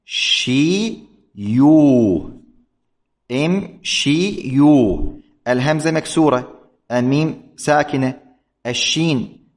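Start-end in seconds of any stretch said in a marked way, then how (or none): 0.0-5.1 إم شي يو broken into slow separate syllables; syllabified root. Shown as a demonstration. Teacher explaining the root to students, slowly syllabifies. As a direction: spell out إم شي يو very slowly, beat by beat. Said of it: "الأصل هو إم".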